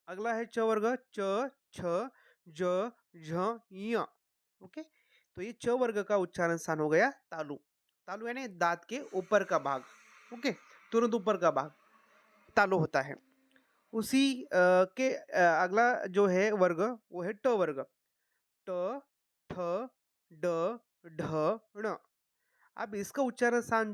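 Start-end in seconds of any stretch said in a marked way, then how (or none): 1.2-3.9 च, छ, ज, झ, ञ sounded one by one; pronunciation demonstration. Shown as a demonstration. Teacher reciting the cha-group for learners, careful articulation. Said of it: "उच्चारण पे ध्यान दीजिए". 18.7-21.9 ट, ठ, ड, ढ, ण one at a time, long pauses between; pronunciation demonstration. Shown as a demonstration. Teacher modelling the retroflex letters, careful separate articulation. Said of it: "उच्चारण पे ध्यान दीजिए".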